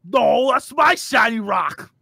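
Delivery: slow, shouted ogre voice; dim giant. Acted. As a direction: bellow it like a dumb ogre. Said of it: "I'll be like".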